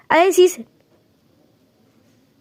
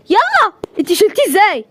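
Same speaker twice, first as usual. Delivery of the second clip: urgent rush; 8 semitones higher than usual. Acted. Rushing the boy to the doctor, high urgent calls. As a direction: push everyone on, frantic.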